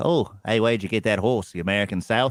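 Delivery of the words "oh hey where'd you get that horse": mock Australian outback accent. Radio co-host riffing on a film's accents, doing an Australian outback accent impression. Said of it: "These are all very good impersonations you're doing".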